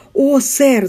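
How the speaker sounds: lightly breathless maid; a hint of gasping for air; panting shaky eyewitness. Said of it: "задыхаясь, заговорила она". (задыхаясь)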